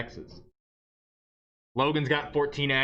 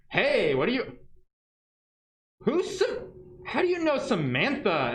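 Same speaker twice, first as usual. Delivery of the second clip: mock Jenny; 8 semitones higher than usual. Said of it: "And Jenny's like".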